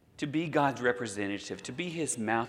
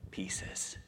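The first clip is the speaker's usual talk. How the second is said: whisper; 10 dB quieter than usual. Acted. Tablets breaking, dropped to whisper.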